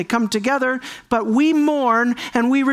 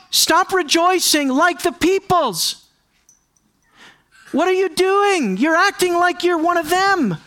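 raised prophetic rebuke; 7 semitones higher than usual. Retold or imitated. Prophet scolding Israel for copying the nations, raised plea. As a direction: rebuke them from the pulpit. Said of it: "he goes out of his way and he says".

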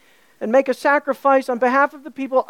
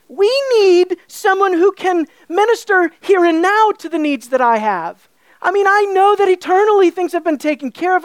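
complaining churchgoer; 5 semitones higher than usual. Retold or imitated. Preacher voicing a neglected church member's complaint, aggrieved. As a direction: whine like a member who feels neglected. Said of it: "we might say something like this".

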